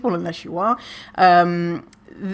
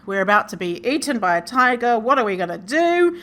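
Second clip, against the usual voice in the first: mock panic; 3 semitones higher than usual. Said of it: "your brain is like".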